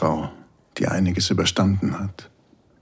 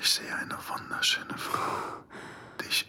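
soft unvoiced whisper close up; right in your ear; 10 dB quieter than usual. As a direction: breathe it into her ear. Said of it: "flüsterst in mein Ohr".

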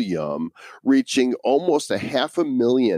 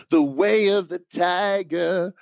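announcer voice; 9 semitones higher than usual. Pretend. Dramatic announcer title read.

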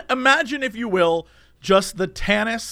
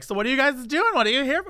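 lightly voiced young girl, higher pitch; a higher, questioning young girl imitation; 6 semitones higher than usual. Young girl talking to the men in line, lightly imitated. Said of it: "this one young girl starts talking to them".

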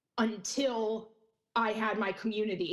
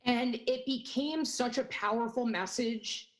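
shaking voice. Real, not acted. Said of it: "my voice is shaking right now".

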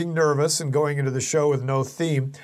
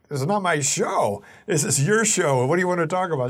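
exasperated; 5 semitones higher than usual. Retold or imitated. Pressing her minutes before airtime.

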